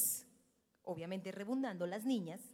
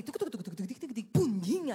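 radar ticking noise; 4 dB louder than usual. Shown as a demonstration. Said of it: "vienen con el radar así".

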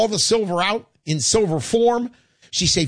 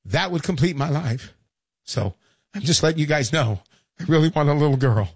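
a little emotional; 4 semitones lower than usual. Real, not acted. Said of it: "Sorry to get a little emotional".

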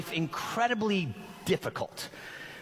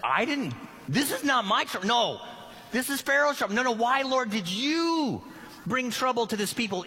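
higher, protesting, defensive; exasperated Moses; 4 semitones higher than usual. Retold or imitated. Moses complains that the trouble is Pharaoh's, higher and exasperated. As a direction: push back on God in disbelief. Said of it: "The guys are like".

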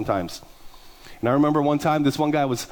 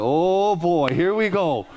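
mock dread; 4 semitones higher, slower than usual. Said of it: "I was like".

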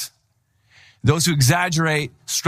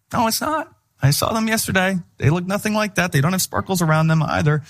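mock disbelief; 5 semitones higher than usual. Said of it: "It's like".

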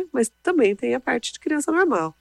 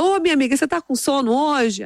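lightly voiced guard, higher pitch; higher teasing question to a child, lightly imitated; friendly guard; 6 semitones higher than usual. School guard asking his sleepy little friend, lightly imitated friendly voice. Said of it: "Aí ele fala".

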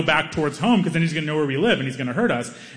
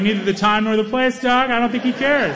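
higher, exasperated voice; exasperated self; 8 semitones higher than usual. Retold or imitated. Telling his friend this is not the moment, higher and exasperated. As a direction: scold your friend gently. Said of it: "I was like".

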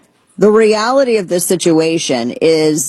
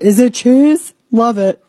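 mock eager; 5 semitones higher than usual. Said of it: "I'm like".

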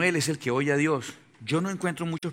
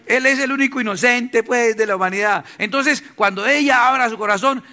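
laughing mockery; 7 semitones higher, 7 dB louder than usual. Real, not acted. Mocking men's innocence, laughing.

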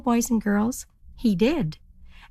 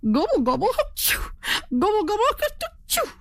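high gobbles broken by sneezes; gobble, then sneeze sharply; sneezing turkey gobble; 13 semitones higher, faster than usual. Acted. Turkey on the dusty road gobbles and sneezes. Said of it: "dusty road made him sneeze".

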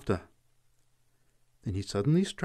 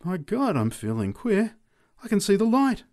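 put-on drunk announcing; 10 semitones higher than usual. A narrator's reading. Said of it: "announced the drunk".

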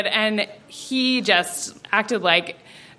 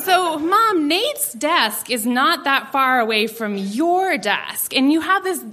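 put-on higher, coaxing teen pitch; wheedling pitch; 3 semitones higher, slower than usual. Teen pitching a revenge plan to mom, wheedling. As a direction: talk mom into a scheme, lightly acted.

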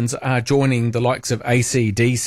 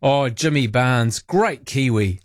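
mock claiming; slower than usual. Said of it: "imagine if we were to say something like".

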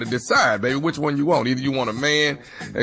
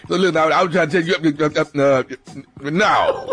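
laughing impression. Impersonating the boyfriend's speech.

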